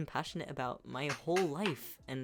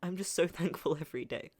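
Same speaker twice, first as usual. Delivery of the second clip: slightly raised, tearful voice; grateful tears; 4 semitones higher, 4 dB louder than usual. Real, not acted. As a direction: give heartfelt thanks while crying. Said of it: "I'm sorry I'm crying".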